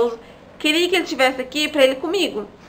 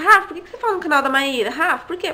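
mimicking viewers; 3 semitones higher than usual. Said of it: "Muitas me perguntam".

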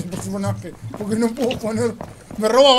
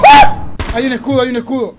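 panicking gamer; 7 dB louder than usual. Real, not acted. Spotting a shield mid-fight.

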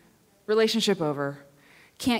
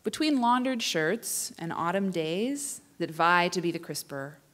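poem reading. Acted. Reads a poem.

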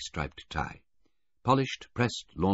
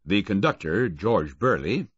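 louder, formal announcement; Baudelaire; 4 semitones higher, 6 dB louder than usual. A narrator's reading. Bill Baudelaire presenting the witness, formal.

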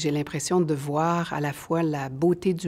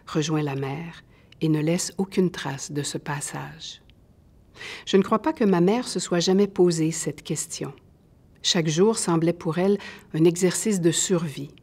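measured, deliberate reading of a novel passage; literary reading. Acted. Author reading her own novel aloud to listeners, in a measured reading voice.

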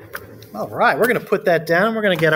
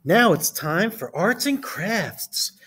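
Miss Carrington; 3 semitones higher, slower than usual. Acted. Teacher character announces crafts.

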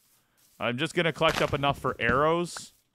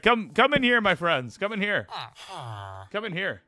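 high, sing-song coaxing; coaxing call; 5 semitones higher than usual. Pretend. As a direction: lure the villagers in like pets. Calling villagers in.

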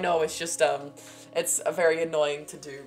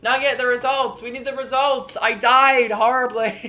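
loud, raised demand; urgent calling out; 6 semitones higher, 9 dB louder, slower than usual. Pretend. Player demanding results from Nugget after dying horribly, loud mock urgency. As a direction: call out loudly, drawing out the end.

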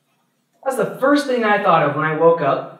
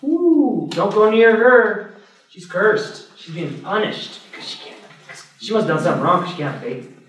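higher, gossipy mock shock; mocking gossip; 4 semitones higher than usual. Preacher imitating neighbours shunning an infertile woman, mocking gossip. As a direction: sneer like a village busybody.

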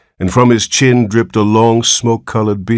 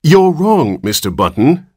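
high, firm opening, then dropping; severe correction; 9 semitones higher, 4 dB louder than usual. A narrator's reading. Nurse sets the father straight, severely. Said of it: "said the nurse severely".

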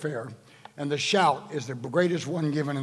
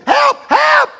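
much higher, much louder panicked yell; mock scream for help; 12 dB louder than usual. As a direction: scream it like terrified disciples. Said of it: "they started screaming".

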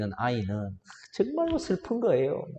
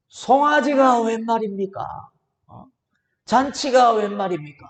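put-on angry older brother; 2 semitones higher, 4 dB louder than usual. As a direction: complain to the father like a wronged, angry son. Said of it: "하면서 막 화가 난 것이죠".

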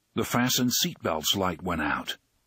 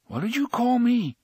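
high, louder indignant question; 13 semitones higher, 3 dB louder than usual. A narrator's reading. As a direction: demand it, outraged. Eddie offended.

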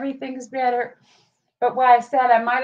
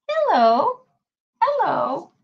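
calling out; 7 semitones higher, 3 dB louder, slower than usual. Real, not acted. Calling to the dog.

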